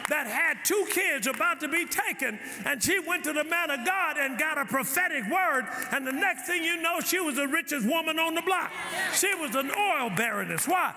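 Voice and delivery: preaching hard, pitch up and ringing; full-force preaching. Acted. Pastor preaching hard at the congregation, full force. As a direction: drive the sermon home to the church.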